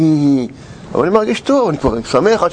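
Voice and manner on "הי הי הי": mocking laughter imitation. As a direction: imitate them laughing at you. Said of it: "הם צוחקים".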